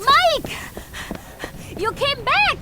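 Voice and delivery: high, loud glad surprise; delighted surprise. Acted. Sadie seeing Mike return, delighted and surprised. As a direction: greet him with sudden joy.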